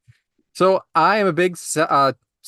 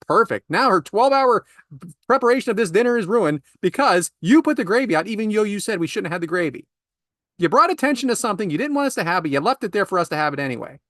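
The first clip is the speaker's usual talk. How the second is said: exasperated rant; 5 semitones higher than usual. Real, not acted. Climax of the gravy rant.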